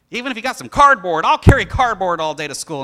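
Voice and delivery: imitating his son begging eagerly; eager child begging. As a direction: plead like a boy who'll take anything. Father voices son begging.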